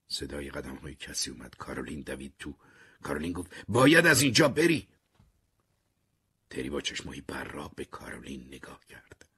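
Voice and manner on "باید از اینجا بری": high, loud cry; loud urgent warning. Acted. Caroline bursting in to warn Terry, shouting high.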